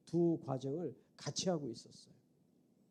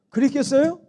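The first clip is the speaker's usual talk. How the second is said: 그랬겠어요 asked again higher and louder with a rising end; loud rhetorical question; 9 semitones higher, 18 dB louder than usual. Real, not acted. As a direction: push 그랬겠어요 up loud to the congregation. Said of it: "rhetorical question repeated". (그랬겠어요를 크게 올려 묻기)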